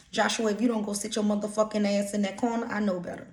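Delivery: a hint of a threatening mother; lightly hammed-up cussing threat; mock cussing parent. Shown as a demonstration. Parent threatening Joshua with curses, a mild mock scold. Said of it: "Everything sound better with curse words".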